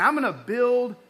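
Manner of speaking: slow, weighty "I'm gonna build my church upon the gospel"; preacher driving home the point, slowed; slow emphasis. Shown as a demonstration. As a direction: lay each word down deliberately. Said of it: "He said".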